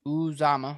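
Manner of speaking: "Uzomah" said oo-ZAH-muh; pronunciation demo. Shown as a demonstration. Showing cohost how to pronounce the name, pronunciation demo. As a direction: stress the middle of "Uzomah", starting on oo. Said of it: "How to pronounce his name?".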